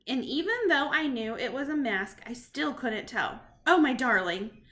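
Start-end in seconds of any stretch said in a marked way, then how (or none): 3.6-4.6 cried. Acted. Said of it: "she cried".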